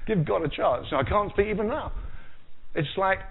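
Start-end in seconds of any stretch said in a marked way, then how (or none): 0.1-1.9 high, pleading come on; exasperated listener. Retold or imitated. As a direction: urge Moses with mock impatience, pitched up. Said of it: "You think".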